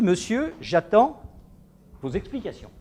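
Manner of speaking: clipped, mildly irritated demand, rising on Monsieur; irritated caller. Retold or imitated. Angry caller demanding explanations from the therapist, a mild mock irritation. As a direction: play the annoyed caller demanding an answer, without yelling. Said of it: "il m'appelle très énervé".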